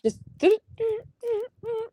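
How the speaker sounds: cricket noise. Shown as a demonstration. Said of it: "kinda like rolling R's almost".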